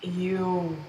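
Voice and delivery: drawn-out grossed-out reaction; disgusted. Acted. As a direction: draw it out in disgust. Disgusted at overheard thought.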